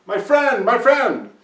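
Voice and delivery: high, loud call across the road; yelling. Acted. Neighbor hails the farmer across the road, loud high yell. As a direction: call out to him from afar.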